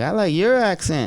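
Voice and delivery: retold reply, punching "your"; stress on YOUR. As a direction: hit the word "your" to return the compliment. Turns the compliment back on them.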